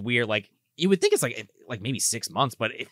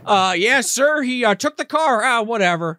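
higher, louder hesitant butler; Alfred on the phone; 7 semitones higher, 4 dB louder than usual. Retold or imitated. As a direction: fumble the news like a butler.

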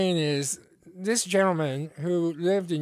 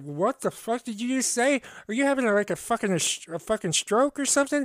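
raised-pitch, bewildered questioning; incredulous retort; 5 semitones higher, faster than usual. Retold or imitated. Listener answering a Cajun's strange phrase, acted incredulous confusion. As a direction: act out being totally lost by what was said. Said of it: "And I'm like".

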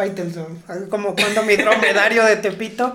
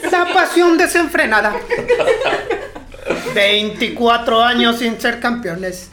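dramatic sports narrator; 2 semitones higher than usual. Pretend.

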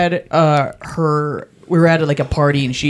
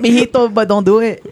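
laughing Hispanic-accented auntie impression; auntie's Hispanic accent; 4 semitones higher than usual. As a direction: pitch it up slightly as the Hispanic auntie. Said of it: "like, do an impression like that".

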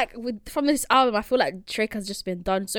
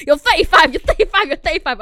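mock taunting; 6 semitones higher, 7 dB louder than usual.

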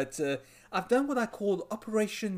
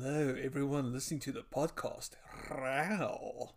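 sexy voice; 5 dB quieter than usual. Pretend. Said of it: "say hello in the sexiest tone of voice you can possibly muster".

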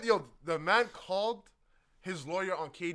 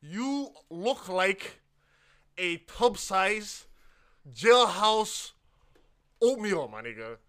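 slow roast; 5 dB louder, much slower than usual. Real, not acted.

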